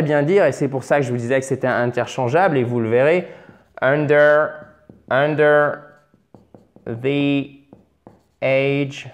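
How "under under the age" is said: slow dictation with long gaps between words. Shown as a demonstration. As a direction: spell out the phrase one word at a time for learners. Teacher dictates the example word by word. (dictée lente, mot par mot)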